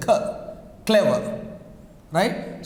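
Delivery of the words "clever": "clever" stressed at the start, then falling; stress on first syllable. Shown as a demonstration. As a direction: lean on the opening syllable of "clever". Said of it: "we give the stress here".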